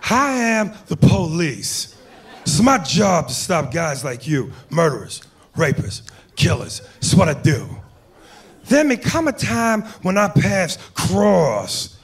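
a hint of Pacino's cop in Heat; Al Pacino impression. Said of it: "Robert De Niro in Heat".

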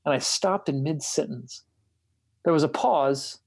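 measured reading of a written dialogue; book reading. A narrator's reading. Host reads a bishop interview to a friend, measured book reading. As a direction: read the passage aloud deliberately, phrase by phrase.

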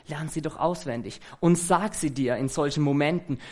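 usual speaking voice

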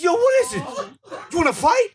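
very high mock aggressor; hammed-up challenge to a fight; imitated confrontational challenge. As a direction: square up, voice shooting up high. Repeats the opponent's challenge.

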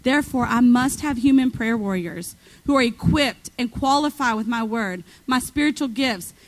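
low, steady proclamation read aloud; prophetic reading. Real, not acted. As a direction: proclaim it straight from the book.

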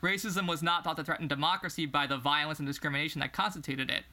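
measured book-reading voice; reading aloud. Acted. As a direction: read the passage out evenly. Reads a book passage.

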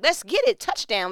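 high, loud huddle-breaking shout; rallying team cheer. Acted. Wife coming out of the huddle armed, rallying shout. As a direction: fire up the team like a coach. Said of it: "I come out the huddle armed".

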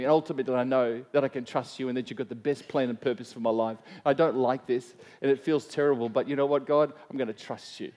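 hushed, earnest prayer to God. Acted. Models a personal prayer.

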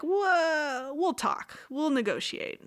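high, mock placating voice; lightly acted appeasement; nervous backpedalling.

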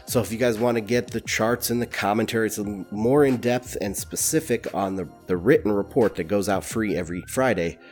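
blocked nose from a cold; stuffy nose. Real, not acted. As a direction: talk through a stuffy head cold. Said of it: "so excuse the stuffy voice".

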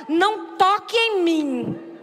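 sulky refusal. Retold or imitated. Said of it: "Deita na cama, na borda".

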